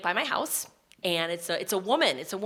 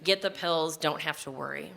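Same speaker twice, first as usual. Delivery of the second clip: remembered mother's advice; 5 semitones lower, 6 dB quieter than usual. Retold or imitated. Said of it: "voice in my ears".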